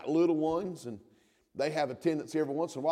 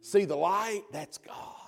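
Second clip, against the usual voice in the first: put-on nearly whispered to a child; hushed awe; 2 semitones higher than usual. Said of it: "And he'd say".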